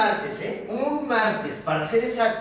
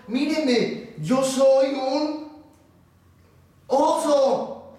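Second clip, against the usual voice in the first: halting, higher-pitched protest; frightened bear; 4 semitones higher, slower than usual. Acted. Bear explaining himself to the foreman, mildly scared. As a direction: stammer out an excuse with long hesitations. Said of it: "se asustó".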